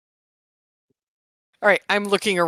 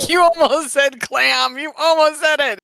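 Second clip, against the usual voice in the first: teasing; 7 semitones higher, 7 dB louder than usual. Real, not acted. Player teasing the GM.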